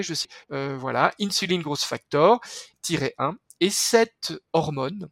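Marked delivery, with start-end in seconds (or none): 1.2-2.4 English term with a French accent; French accent on an English scientific name. Real, not acted. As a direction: say the English words as a French speaker would. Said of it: "Désolé pour mon accent anglais".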